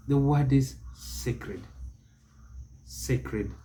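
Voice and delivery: SACRED with a long AY, "SAY-krid"; correct pronunciation. Shown as a demonstration. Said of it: "It is pronounced sacred, never sacred".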